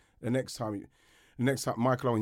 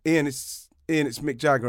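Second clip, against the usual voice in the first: lightly voiced singer; 3 semitones higher, 5 dB louder than usual. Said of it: "do the voice".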